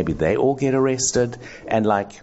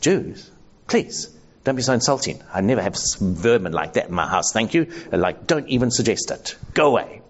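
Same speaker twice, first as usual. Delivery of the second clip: straight-faced lie; 2 semitones higher than usual. Acted. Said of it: "with a straight face I can say".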